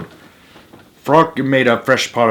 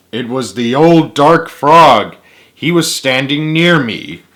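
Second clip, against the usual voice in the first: dramatic reveal; 3 semitones higher, 4 dB louder than usual. Acted. Climax of ghost story.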